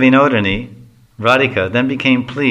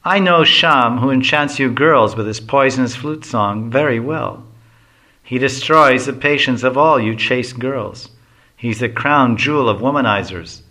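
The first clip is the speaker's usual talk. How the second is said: envious mocking. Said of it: "Madhumangal enviously replies".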